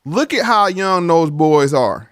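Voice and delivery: slow it down to drive it home; slow, emphatic repeat. Shown as a demonstration. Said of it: "Once again".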